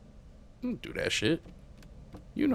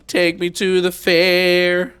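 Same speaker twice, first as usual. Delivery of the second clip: put-on creepy child plea; 8 semitones higher, 9 dB louder, much slower than usual.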